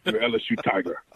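a hint of a big Louisiana head coach recruiting a player; Coach O impression. LSU rookie imitating his old coach's recruiting pitch, lightly done. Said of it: "an impersonation in his former coach's direction".

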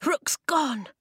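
high-pitched shocked gasp. A narrator's reading. Jay at the empty birdcage, high shocked gasp. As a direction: gasp it in alarm. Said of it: "he gasped".

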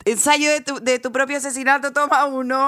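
playful clapperboard announcement; mock take announcement. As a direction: announce the take like a film crew, in jest. Mock clapperboard call for her death.

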